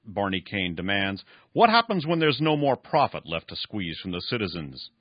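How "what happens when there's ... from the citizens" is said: mildly louder, heated question; a touch of anger pressing the old man; understated angry challenge; angry demand. Acted. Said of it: "Barney asked angrily".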